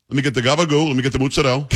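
GABAGOO and MOZZARELLA as "gah-ba-goo", "moots-ah-DELL"; clipped endings on GABAGOO and MOZZARELLA, New York style; New York Italian pronunciation. Shown as a demonstration. Host ordering a hoagie, New York Italian GABAGOO and MOZZARELLA. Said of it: "You gotta say it right".

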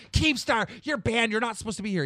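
imitating a Twitch employee telling him off; mock Twitch staffer. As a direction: play the uptight staffer busting him.

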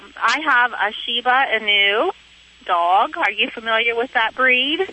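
heard through a phone line; over the phone. Real, not acted. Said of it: "I'm talking to you on the phone".

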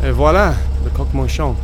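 flourishing arrival; grand announcement. Acted. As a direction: present it like a magician.

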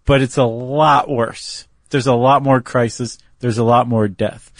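put-on lightly done Irish accent; a hint of an Irish lilt. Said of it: "in his best Irish accent".

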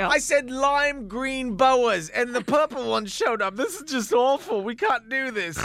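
hammed-up diva fretting over boas; mock diva whine. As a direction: whine like a pampered star. Mock diva complaining about boas.

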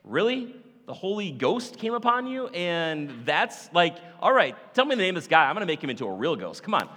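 a betrayed fiance fuming; upset Joseph. Retold or imitated. Joseph reacting to Mary's pregnancy, angry and incredulous. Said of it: "He's like".

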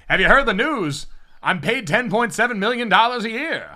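a mid-Atlantic wartime newsreader voice; mid-Atlantic accent. Retold or imitated. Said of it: "give Nick Saban a mid-Atlantic accent".

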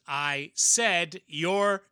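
strained shout. Acted. Valor shouts from monster's mouth.

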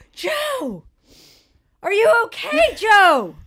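high, worried pleading call. Acted. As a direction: call to him, growing scared. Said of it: "He's starting to get worried".

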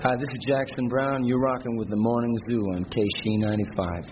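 upbeat station ID read; radio promo read. Shown as a demonstration. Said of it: "Okay, just one other one for the radio station".

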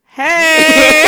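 a hammed-up loud hello; mock cheery shout. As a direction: overplay recognizing someone you don't. Mock greeting to unknown guys.

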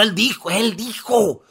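"Él dijo, él dijo" slow and drawn out, each word spaced; insistent repetition. Real, not acted. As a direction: stretch out "Él dijo, él dijo". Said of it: "No lo dije yo".

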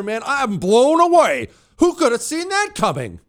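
high, sarcastic fake astonishment; sarcastic mock disbelief; mock shock. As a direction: gasp in mock surprise, dripping sarcasm.

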